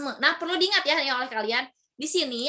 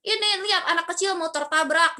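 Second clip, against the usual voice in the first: a raised, scolding line; acted angry rebuke; 4 semitones higher than usual. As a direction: keep up the mock anger. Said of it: "Ojan misalnya marah-marah ke Iman". (Ojan memarahi Iman, marah pura-pura)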